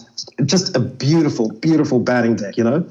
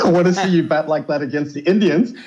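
laughing through the quote, pitched higher; 4 semitones higher than usual. Retold or imitated. Andy repeats his own angry words back to him: laughing. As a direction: quote it while laughing at the memory. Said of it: "And I just started laughing".

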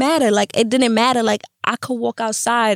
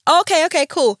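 imitating mom; 7 semitones higher than usual. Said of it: "She like".

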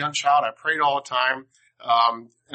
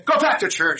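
stern mother; 8 semitones higher, 5 dB louder than usual. Retold or imitated. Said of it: "He goes".

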